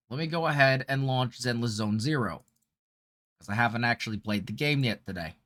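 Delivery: normal talking voice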